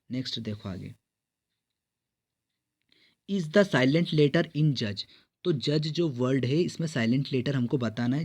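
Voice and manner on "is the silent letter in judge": slow reading. Shown as a demonstration. Reads exam question slowly.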